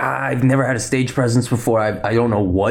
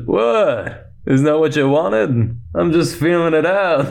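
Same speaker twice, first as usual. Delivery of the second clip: higher mock-innocent protest; Lando; 5 semitones higher, slower than usual. Lando after leaning in to kiss her, mock-innocent protest. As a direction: play it as a shameless free spirit excusing himself. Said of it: "tries to kiss her and he goes".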